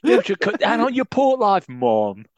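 put-on high, loud Jamaican accent. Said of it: "Do that in a Jamaican accent".

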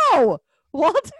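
loud, high mock-outraged protest; exasperated outcry. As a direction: burst out loudly at the movie character. Her outraged reaction to the film.

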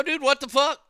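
escalated yell at the salesman. Retold or imitated. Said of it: "And I go".

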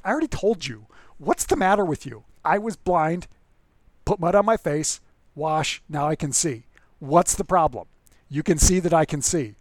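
mock-irritated blind man, half-hearted snark; snarky annoyed retelling. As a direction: play him fed up with being asked again. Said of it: "getting increasingly annoyed and frustrated and snarky".

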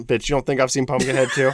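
laughing through the words; cracking up mid-sentence. Real, not acted. Laughing comeback.

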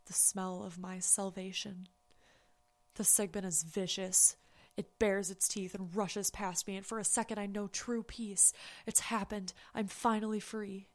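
hushed horror story reading; story narration. Acted. Reads horror story aloud.

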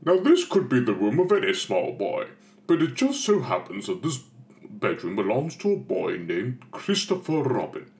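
a touch of a gentle storybook narrator; lightly voiced fairy-tale narration. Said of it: "the narrator goes".

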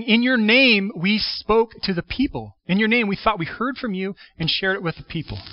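claiming credit eagerly; proud claim. Retold or imitated. Quoting confident followers.

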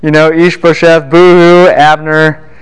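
a mocking, half-joking sob story; mock crying. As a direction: mimic a whiny crybaby king. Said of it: "He cry-, he's like".

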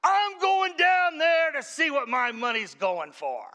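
loud, high, slow furious vow; husband vowing to go see where his money goes, shouting; angry declaration. Retold or imitated. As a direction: storm out with it. Furious husband heads to church.

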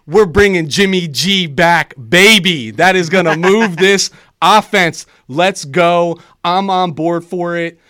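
loud, fired-up cheering for the team; hyped shout. Real, not acted. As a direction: yell it like a fan in the stands. Hyped about bringing Jimmy G back.

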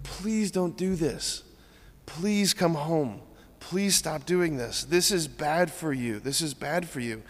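pleading parent. Retold or imitated. Family pleading with addicted son.

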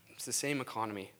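hushed, breathy aside; a sudden whispered point. Real, not acted. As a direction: lean in and whisper it. Dropping to a whisper for emphasis.

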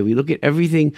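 ordinary delivery

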